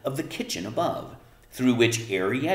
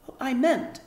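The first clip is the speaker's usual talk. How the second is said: Arrietty. A narrator's reading. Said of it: "said Arrietty".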